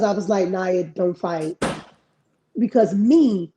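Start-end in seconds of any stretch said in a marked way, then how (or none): 0.5-1.6 put-on slow and low, gently steering a child; calm motherly warning. Mother telling her daughter not to fight, slow and calm. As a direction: soothe her out of fighting, slowly.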